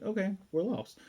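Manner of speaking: high-pitched but unpanicked retelling; retold as a casual acceptance of being lost; matter-of-fact. Eris admits to her companion they are lost, matter-of-factly. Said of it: "Very matter-of-factly, no panic or anything".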